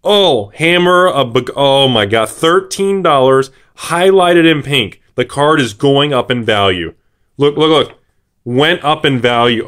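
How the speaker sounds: high, loud and slow, nearly shouting about the hammer; can't contain the excitement over a big pull; thrilled. Real, not acted. Sees card price jump.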